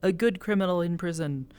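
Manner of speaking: very high, loud, bewildered pleading; a flustered character who can't keep up; high confused voice. Retold or imitated. Tell baffled as Amelia yells at her, high and confused. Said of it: "Tell is just like".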